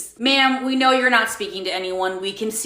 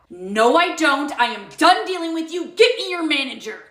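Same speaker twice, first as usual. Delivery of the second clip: demanding the manager; 5 semitones higher than usual. Acted. Karen customer demands manager.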